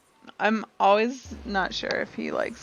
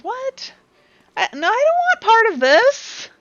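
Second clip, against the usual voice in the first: higher, louder, flustered rising protest; alarmed protest; 10 semitones higher, 10 dB louder than usual. Acted. Ari protesting the bet, alarmed and high. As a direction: panic and back away.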